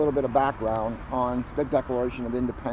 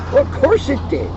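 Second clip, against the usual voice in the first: wry aside; 12 semitones higher, 9 dB louder than usual. Real, not acted. Wry aside about storm.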